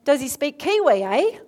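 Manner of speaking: light Kiwi accent with a tagged-on "eh"; playful hint of Kiwi. Shown as a demonstration. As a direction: put on a touch of New Zealand accent. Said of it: "does he have an accent?".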